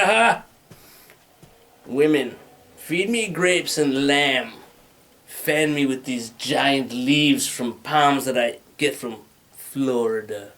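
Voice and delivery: slow, grand imperial commands; mock emperor. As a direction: order servants like a pompous emperor. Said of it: "be like".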